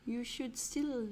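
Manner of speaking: hammy quiz-master wizard. Pretend. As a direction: intone the clue like a wizard, rising toward the threat. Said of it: "I'll do my wizard voice".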